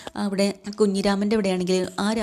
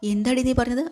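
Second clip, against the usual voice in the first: a higher, sharper rebuke; indignant retort; 5 semitones higher than usual. Acted. Mother rebukes daughter for her words, indignant. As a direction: snap back, offended.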